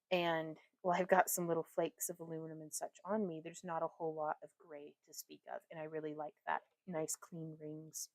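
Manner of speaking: steady, soothing how-to delivery; calm tutorial voice. Acted. Streamer explains chainmail materials to viewers, calm tutorial voice.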